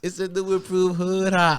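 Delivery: slow, high mock hype line; mock announcer. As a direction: oversell it like an ad. People around him joking.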